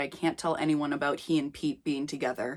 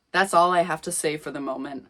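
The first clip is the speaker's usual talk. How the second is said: usual speaking voice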